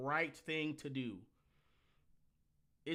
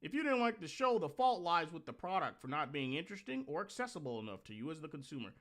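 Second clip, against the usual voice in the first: mocking stuffy phrasing. Reading the article aloud to mock it, in a prissy sing-song. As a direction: parody how nobody really talks. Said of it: "No one fucking talks like this".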